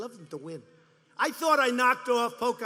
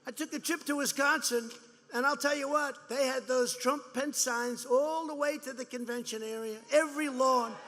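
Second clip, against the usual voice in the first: mock Clinton warning; 3 semitones higher, 4 dB louder than usual.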